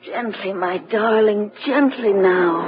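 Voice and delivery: slow, gentle calming; calm him down tenderly; soothing. Acted. Constance soothes terrified Ernest, slow and tender.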